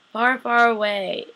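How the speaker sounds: slow, drawn-out far, far away; slow storybook lilt. Pretend. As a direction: stretch it like a fairy tale. Mock fairy-tale phrasing.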